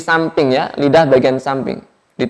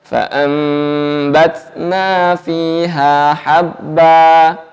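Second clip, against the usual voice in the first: slow, chanted Quranic recitation; much slower than usual. Shown as a demonstration. Teacher models the verse for students, slow chant. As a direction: recite it slowly, each letter placed.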